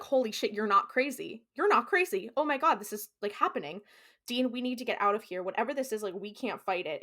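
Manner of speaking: mildly frantic retelling of panic; mock freaking out. Sam to Dean as it becomes real, mildly freaking out. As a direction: play someone freaking out, lightly. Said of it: "freaking out".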